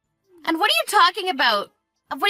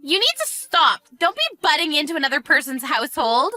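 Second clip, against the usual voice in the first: high-pitched, indignant order; 4 semitones higher than usual. Acted. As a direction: tell them off, pitched up. Orders the other out of affairs.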